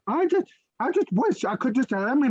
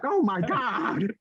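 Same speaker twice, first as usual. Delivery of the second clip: slow, lower exasperated groan; slow exasperated sigh; 3 semitones lower, much slower than usual. Retold or imitated. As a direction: drag it out in disbelief. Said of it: "And I'm like".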